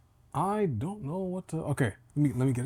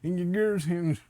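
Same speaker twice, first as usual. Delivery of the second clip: American South voice; 3 semitones higher than usual. Retold or imitated. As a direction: imitate a mumbling American Southerner. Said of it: "Some of the South voices in America".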